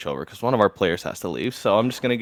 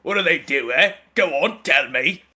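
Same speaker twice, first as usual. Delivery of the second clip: defiant challenge; 4 semitones higher than usual. Acted. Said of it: "the other guy".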